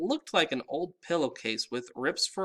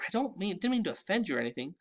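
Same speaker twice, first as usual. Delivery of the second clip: fast; 7 semitones higher, much faster than usual. A narrator's reading. Boy hushing anxiously.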